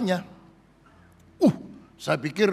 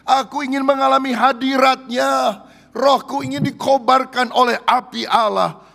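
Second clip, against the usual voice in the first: yearning prayer; 7 semitones higher, 5 dB louder than usual. Pretend. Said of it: "dan engkau berkata".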